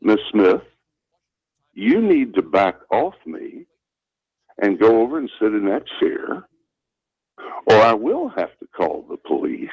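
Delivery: a principal calmly warning an angry mother. Retold or imitated. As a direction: calmly set a boundary without fear. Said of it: "I said in a very calm voice".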